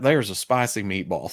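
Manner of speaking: cartoon Italian accent; light comic Italian caricature; Mario-style Italian accent. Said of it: "you went full Mario with it".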